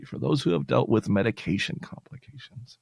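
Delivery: ordinary talk, nothing marked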